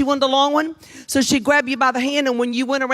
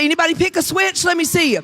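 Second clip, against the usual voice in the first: mom calling out; 5 semitones higher than usual. Retold or imitated. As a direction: call the kids like a mother with a switch. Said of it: "This is what she'd say".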